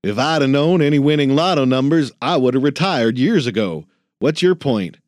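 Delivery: put-on crusty old man parroting the kid; grumpy old janitor mocking. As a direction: throw his own words back at him, gruff and fast. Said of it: "Ben cleared his throat".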